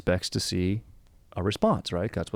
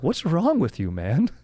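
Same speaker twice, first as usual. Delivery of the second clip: high-pitched mock exasperation; Steve Harvey; 8 semitones higher, 4 dB louder, slower than usual. Host to rowdy guest who smashed his bust, mock exasperation. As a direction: imitate an appalled host scolding someone. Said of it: "Steve Harvey is visibly upset".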